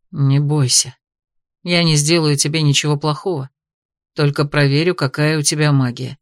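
put-on calm a frightened girl; quiet soothing voice. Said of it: "тихим, успокаивающим голосом произнёс мужчина". (тихим успокаивающим голосом)

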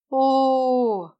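a long, stretched-out knowing "О"; drawn-out oh. A narrator's reading. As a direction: stretch the "О" out, teasing. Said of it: "протянула Лика".

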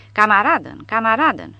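loud, panicked cry of surrender; terrified yell. A narrator's reading. Gendarme surrendering to the soldiers, yelling in terror. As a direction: yell it out, hands up, begging. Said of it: "urlă el".

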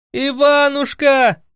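high, slow drawn-out yell of a name; loud yell. A narrator's reading. Emelya spotting his sworn brother, calling out loud. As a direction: bellow his friend's name across the hall. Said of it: "завопил вдруг сидящий за столом Емеля".

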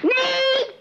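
sharp no. Acted. Mother stops someone touching the still life.

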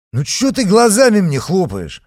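loud, high rude jab; brash interruption; aggressive. A narrator's reading. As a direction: snap at her rudely. Patriot barging in aggressively.

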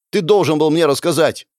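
high, loud accusation; angry reproach. A narrator's reading. Hero to elder who hid the debt, reproaching loudly. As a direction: confront him forcefully.

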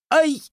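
sharp high yelp of pain; a short cry as the blow lands; sudden yelp. A narrator's reading. Boy knocked off the porch by his grandfather, sharp yelp. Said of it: "Последнее восклицание вырвалось у паренька невольно".

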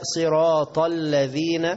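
slow tajweed on "صراط الذين"; Quran recitation. Shown as a demonstration. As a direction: recite with stretched vowels. (ترتيل ممدود)

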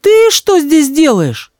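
мама вздрагивает, высоко и медленно; испуганный вскрик матери; испуганно. A narrator's reading. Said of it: "подскочила от испуга". (испуганная мама, высоко и медленно)

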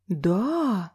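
drawn-out mocking question; undisguised sneer in a single word; open mockery. A narrator's reading. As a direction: stretch it with a taunting lilt. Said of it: "с неприкрытой издёвкой спросила".

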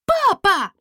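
high loud cry of "Папа!"; outburst. Acted. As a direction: princess can't hold back, cries out. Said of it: "не сдержалась принцесса". (громкий высокий вскрик)

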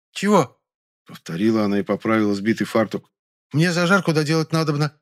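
high village maid; simple maid voice. Acted. Maid answers from the kitchen, high-voiced. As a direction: play the cook high and plain.

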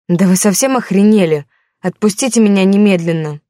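loud, indignant demand; outraged shout. Acted. Cornered woman yelling at the thugs, outraged. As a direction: snap at them in fury.

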